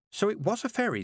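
put-on high, hesitant young girl; girl reporting to the witches; nervous girl. A narrator's reading. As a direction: stammer out the news shyly. Petulia hopeful.

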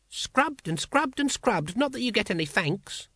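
very high, whiny complaint; aggrieved grumble. A narrator's reading. Brother complains of thankless scrubbing, grumbling. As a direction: moan on as the unappreciated drudge.

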